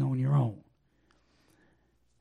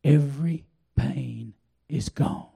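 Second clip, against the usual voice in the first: quoting wife slowly; slower than usual. Retold or imitated. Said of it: "She said".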